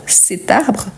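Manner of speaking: "cet arbre" joined as one word; liaison. Shown as a demonstration. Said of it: "on fait la liaison".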